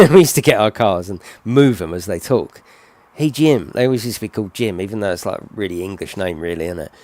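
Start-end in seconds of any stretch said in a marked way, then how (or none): 3.1-3.7 raised put-on American call; mock American accent, pitched up. Toy car greeting another, playful American voice. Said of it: "do this American voice".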